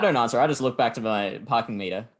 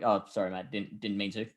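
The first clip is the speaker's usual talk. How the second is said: retold meek apology; 3 semitones lower, 6 dB quieter than usual.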